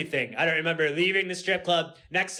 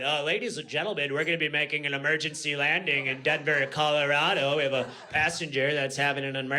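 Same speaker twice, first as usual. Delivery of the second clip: pilot announcement; 2 semitones lower than usual. Retold or imitated. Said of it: "we hear the pilot".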